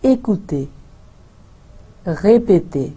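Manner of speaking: écoutez and répétez joined, clean French; French model words. Shown as a demonstration. Teacher rejoining the syllables into French words. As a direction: say the pair in clear French. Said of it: "दूसरे word में भी देखेंगे".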